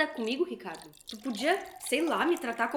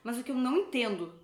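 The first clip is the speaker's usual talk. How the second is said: cold taunting; 2 semitones lower, 5 dB quieter than usual. Acted. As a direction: taunt him quietly to wound. Wife taunts husband quietly. (esposa provocando com desprezo baixinho)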